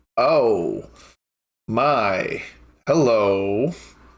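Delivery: catty, appraising once-over tone. Voicing a dressed-up woman who looks a player up and down: catty voice. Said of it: "And she's very catty".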